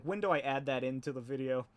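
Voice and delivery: ordinary talk, nothing marked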